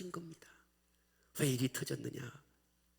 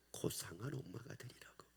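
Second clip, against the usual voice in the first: hushed; 2 semitones lower, 15 dB quieter than usual. Acted. Answering own question, hushed.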